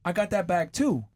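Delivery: put-on high, excited girlfriend squeal; gushing girlfriend. Friend bragging about her cheaper bag, high excited squeal. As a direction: brag like a thrilled friend. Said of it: "And she's like".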